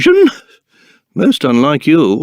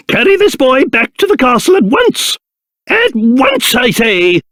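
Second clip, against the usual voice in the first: urgent command; 4 semitones higher than usual. Acted. Orders men to carry the boy.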